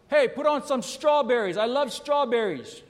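husband calling out loud and high from the other room; retold yell. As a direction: shout it across the house, hammed up. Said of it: "he yells out".

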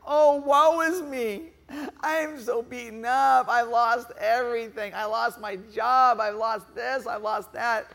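whiny woe-is-me moan; moaning self-pity. Acted. Preacher mocking a moaner, whiny woe-is-me. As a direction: ham up a self-pitying moaner. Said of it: "Have you ever seen people moan about themselves? It's like".

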